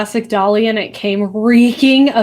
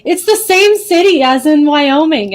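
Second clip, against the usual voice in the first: imitating a friend; 6 semitones higher than usual. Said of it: "And she's like".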